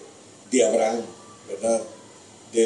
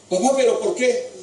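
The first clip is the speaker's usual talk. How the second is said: shocked son; 12 semitones higher than usual. Acted. Isaac learns he is the victim.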